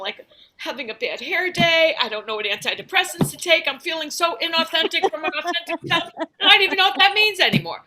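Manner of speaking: half-serious whiny self-pity, rising at the end; mock over-emotional American. American fretting over trifles, mock over-emotional. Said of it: "we're always over emotional".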